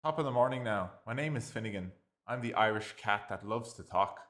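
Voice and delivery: loud, high Irish cat voice; hammed-up Irish brogue, second take; Irish accent. Recording the cat's voiceover again, hammed-up Irish accent. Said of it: "I know how to do an Irish accent".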